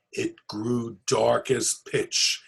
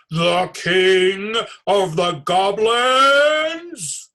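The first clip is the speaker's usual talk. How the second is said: very slow, louder, higher frightened question; fearful gasp; 7 semitones higher, 9 dB louder, much slower than usual. Acted. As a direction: stretch it out in dread. Herschel fearfully guessing.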